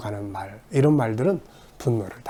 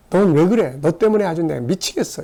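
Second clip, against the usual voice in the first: exasperated scolding; 5 semitones higher than usual. Retold or imitated.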